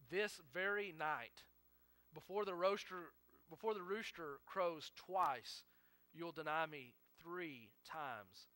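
slow, measured recital of a prediction; deliberate emphasis. Retold or imitated. Preacher retelling Jesus' warning to Peter, slow and deliberate. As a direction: set out each detail slowly, one phrase at a time. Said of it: "Notice how specific all of that is".

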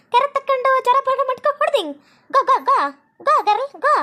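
high, punchy bursts of broken English; mock English retort. Villager answering the girl's English taunts, mock-bossy. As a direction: fire back in showy fake English.

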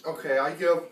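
breathless, high laughing recovery; laughing disgust. Real, not acted. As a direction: still reeling and laughing. Recovering from vile taste.

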